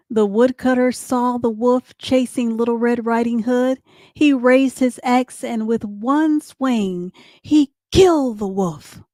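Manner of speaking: put-on lively children's story narrator; story narration. A narrator's reading. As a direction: read the chase aloud to kids.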